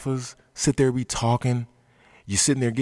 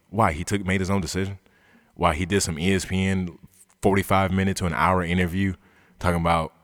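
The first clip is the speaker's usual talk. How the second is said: ordinary delivery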